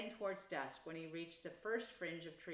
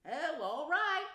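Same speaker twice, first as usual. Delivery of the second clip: slow, loud, higher giving-in; good-natured; 9 semitones higher, 10 dB louder, slower than usual. A narrator's reading. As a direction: give in good-naturedly to a tired friend. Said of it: "said the good-natured Rat".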